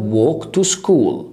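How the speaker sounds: very slow, each word held; slow classroom repetition; slow drill. Shown as a demonstration. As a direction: model it slowly for learners. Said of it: "teacher drilling the phrase".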